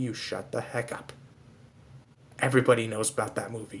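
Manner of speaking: hushed voice. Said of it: "Why are we whispering?".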